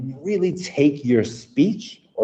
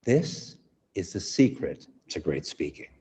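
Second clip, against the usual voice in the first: whispering; 4 semitones lower, 6 dB quieter than usual. Shown as a demonstration. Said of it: "I want everyone to whisper".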